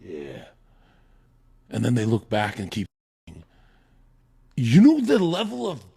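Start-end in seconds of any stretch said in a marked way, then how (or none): 0.0-0.5 soft detached huh. Retold or imitated. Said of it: "they look at their girl".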